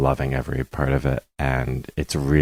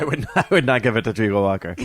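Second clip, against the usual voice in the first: laughing; 5 semitones higher, faster than usual. Real, not acted. Laughing while answering.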